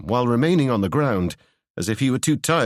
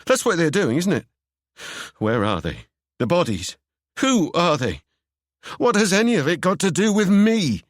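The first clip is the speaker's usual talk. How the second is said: rising, pressing character voice; agitated Seb; 6 semitones higher than usual. Acted. Seb pressing Ewan for answers, rising agitation. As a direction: press him harder with each question.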